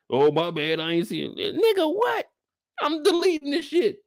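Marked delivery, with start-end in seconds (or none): 1.6-4.0 brushing off a late reply; outraged. Real, not acted. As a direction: scoff and delete them. Mock reply to late texter.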